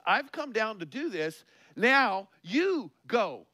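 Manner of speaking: voice of God. Acted. God's words voiced in sermon.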